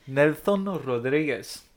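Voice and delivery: slow Latin American Spanish accent on the name. Shown as a demonstration. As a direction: draw out "Nelson Rodriguez" like a Spanish speaker. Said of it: "I was using my Latin American Spanish accent".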